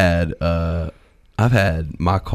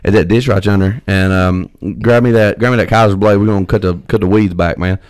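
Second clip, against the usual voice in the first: thick country accent; 3 semitones higher than usual. Shown as a demonstration. Excited back home among country folk, thick country accent. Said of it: "I start talking like this right here".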